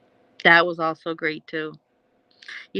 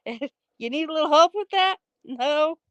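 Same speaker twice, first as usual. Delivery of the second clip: quoting a character; 9 semitones higher than usual. Retold or imitated. Quoting movie dialogue.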